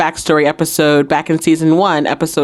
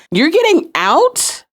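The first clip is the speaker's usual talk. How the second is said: restrained retold yell, pitched way up; mock yelling; 10 semitones higher, slower than usual. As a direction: imitate calling out in outrage. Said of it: "yelling out to Alex".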